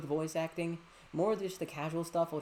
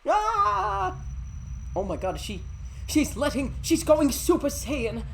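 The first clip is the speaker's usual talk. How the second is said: loud, high hype; excited yell; 9 semitones higher, 9 dB louder than usual. Real, not acted. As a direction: shout in amazement. Excited reaction to game.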